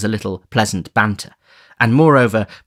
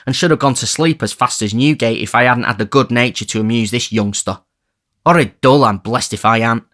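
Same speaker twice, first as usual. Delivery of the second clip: louder, swaggering bored gent; Toby Crackit; 3 semitones higher, 4 dB louder than usual. Acted. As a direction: complain grandly of the dullness.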